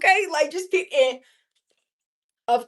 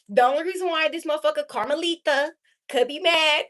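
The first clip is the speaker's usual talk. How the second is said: usual speaking voice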